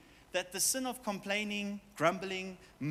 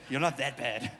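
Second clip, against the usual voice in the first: with that tone; 5 semitones lower than usual. Shown as a demonstration. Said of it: "You gotta say it with that tone".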